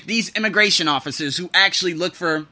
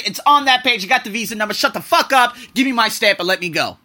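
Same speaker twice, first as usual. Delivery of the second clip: loud, high mock telling-off; hammed-up fed-up traveller; imagined comeback; 5 semitones higher, 4 dB louder than usual. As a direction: pretend angry snap at the officer. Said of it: "I'm gonna say".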